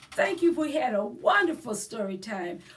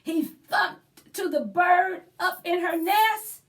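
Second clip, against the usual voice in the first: put-on lively read-aloud for children; story time narration. A narrator's reading. Librarian reading to children, animated storybook voice. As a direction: read it like a picture book to little ones. Reads a picture book aloud.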